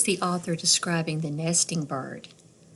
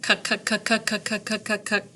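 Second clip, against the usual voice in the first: woodpecker call; 2 semitones higher than usual. A narrator's reading. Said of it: "Woodpecker calls from a tree".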